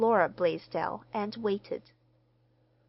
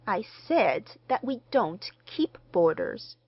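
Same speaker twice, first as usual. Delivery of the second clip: "don't keep boarders" said distinctly, word by word; firm, distinct repeat of "don't keep boarders"; distinct reiteration; 2 semitones higher, 4 dB louder than usual. A narrator's reading. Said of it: "reiterated the lady distinctly".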